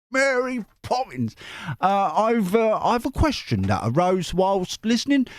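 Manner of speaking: high, hammed-up Australian-Cockney accent; Dick Van Dyke Cockney. Reader voices a letter from Chris, hammed-up Cockney. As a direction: put on an embarrassingly bad musical-chimney-sweep Cockney. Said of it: "kind of Dick Van Dyke".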